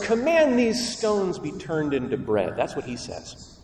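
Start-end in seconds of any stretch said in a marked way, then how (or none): 0.0-2.5 a higher, sly command; taunting Lucifer. Acted. Preacher voicing Lucifer's demand, sly and higher. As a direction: goad him to work a miracle. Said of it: "Lucifer says".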